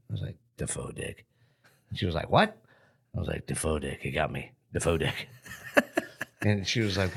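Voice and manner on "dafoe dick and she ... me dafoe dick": dazed traumatized. Retold or imitated. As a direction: repeat it like you can't think of anything else. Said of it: "That's all I could say for a week".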